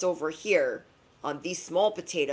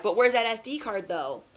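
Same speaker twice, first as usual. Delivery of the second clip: a touch of a nagging friend, high then dropping on though; lightly voiced pushy question; double energy nagging; 4 semitones higher, 3 dB louder than usual. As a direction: poke at them with each though. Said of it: "double energy is like".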